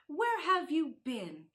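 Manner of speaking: sharp and urgent; urgent demand. Acted. Sister startled by brother.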